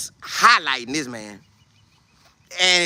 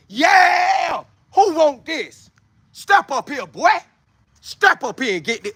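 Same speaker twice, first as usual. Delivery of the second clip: hollering trash talk; 7 semitones higher, slower than usual. Retold or imitated. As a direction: holler it across the field to challenge them. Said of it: "I'm hollering all day".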